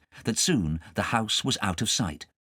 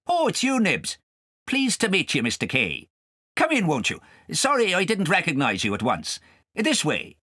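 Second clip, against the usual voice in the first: high, sly friendly voice; fox's voice; 7 semitones higher than usual. A narrator's reading. The fox welcoming Nibs and Kay, high and sly. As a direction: greet them like a smooth fox.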